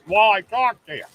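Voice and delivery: talking while chewing; words round a mouthful; mouth full. Real, not acted. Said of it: "Don't talk with your mouth full".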